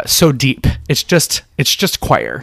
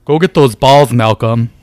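gym teacher voice; 5 dB louder, slower than usual. Acted. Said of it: "like a lesbian gym teacher".

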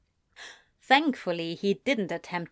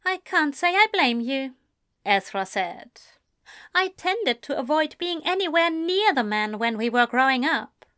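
a hint of a higher, measured gentleman; poised young man insisting politely; Ezra, lightly higher, cool and composed; lightly voiced Ezra; 5 semitones higher than usual. Ezra agrees about Crowley.

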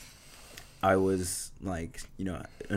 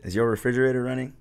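cheesy pickup line; 5 semitones higher, 6 dB louder, much faster than usual. Pretend. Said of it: "That one's lame".

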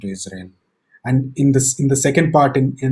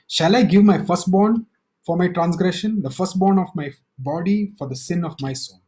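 a mild haughty challenge, higher at first; arrogant question; 4 semitones higher than usual. Acted. Preacher voicing the people's arrogant question to God, mildly. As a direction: voice the people's revolting offer with a hint of pride. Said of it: "they're really arrogant".

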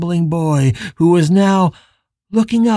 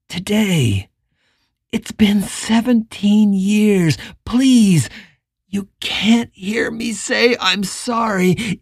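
tender plea; slower than usual. Acted. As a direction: plead gently with him. Richard pleads tenderly.

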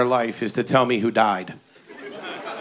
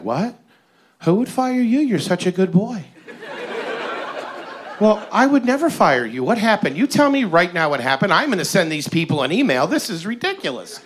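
higher-pitched outraged mother; mock doting mom; 4 semitones higher than usual. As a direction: play the protective mother, indignant. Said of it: "She was like".

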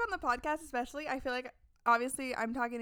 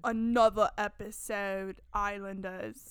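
mocking; 4 semitones lower, 4 dB louder, slower than usual. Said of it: "Mariah accidentally called them Islanders".

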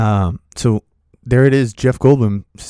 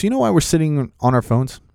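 higher-pitched rhetorical complaint; retold grievance, pitch raised; venting; 6 semitones higher than usual. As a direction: imitate an aggrieved vent. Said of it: "he just starts venting to me".

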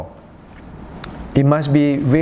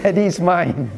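put-on possessive child; 4 semitones higher than usual. Child claiming daddy, retold.

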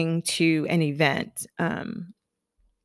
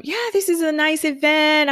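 friend's voice; 9 semitones higher than usual. Retold or imitated. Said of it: "she was like".

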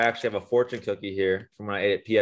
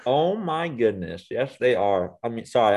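talking through a bite of cookie; words round a mouthful of cookie; mouth full. Real, not acted. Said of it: "I'm eating a cookie right now".

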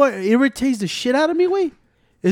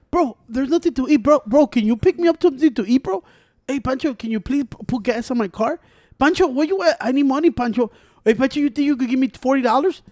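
lightly imitating a needy moocher in higher pitch; mock pleading; 4 semitones higher than usual. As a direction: wheedle for favours, mockingly. Mimicking friend's constant begging for favours.

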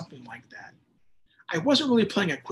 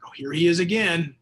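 eye-rolling sigh; 4 dB louder than usual. Retold or imitated. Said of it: "God is just rolling his eyes every time you pray".

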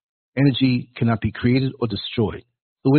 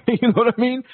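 laughing; 12 semitones higher than usual. Real, not acted. Laughing aside.

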